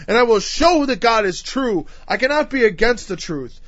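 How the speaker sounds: emphatic, driving sermon delivery; fervent pulpit declaration; impassioned preaching. Real, not acted. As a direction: preach it insistently, building point on point. Preaches at rising intensity.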